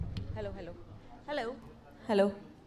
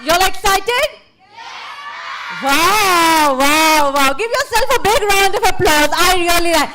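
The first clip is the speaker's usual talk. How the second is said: hyped-up host; 6 semitones higher, 9 dB louder than usual. Real, not acted. Host pumps up the children.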